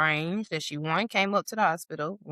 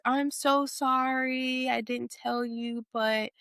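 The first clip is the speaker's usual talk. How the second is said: acted sweet apology; 4 semitones higher than usual. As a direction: imitate someone breaking news apologetically. Imitated false apology and confession.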